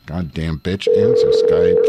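loud irritated outburst; snapping at the computer. Real, not acted. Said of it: "Sorry, I'm irritated".

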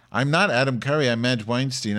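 indignant. Acted. Host indignantly corrects listeners' requests.

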